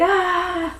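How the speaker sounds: drawn-out mock "ah" of alarm; mock cry. Daisy fallen on her back, legs in air, mock cry. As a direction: cry out as if tipped over. Daisy cries out falling backwards.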